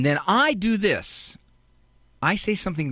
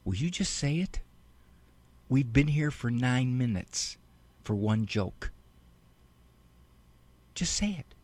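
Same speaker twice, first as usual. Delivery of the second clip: muttered impatience; 5 semitones lower, 6 dB quieter than usual. Retold or imitated. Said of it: "my temptation at that point is to say".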